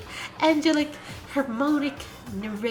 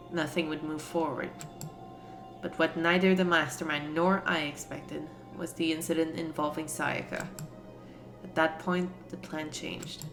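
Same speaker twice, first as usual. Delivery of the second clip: narrator voice; 4 semitones lower, 4 dB quieter than usual. Acted. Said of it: "I shall read it using my melodic, angelic, harmonic narrator voice".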